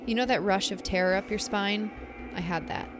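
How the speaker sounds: measured spooky campfire storytelling; story narration. A narrator's reading. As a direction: read the eerie story aloud, letting pauses hang. Reads a listener story aloud.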